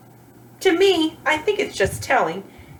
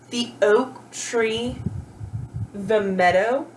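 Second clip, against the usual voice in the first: slow rereading; slower than usual. Shown as a demonstration. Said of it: "does that make sense".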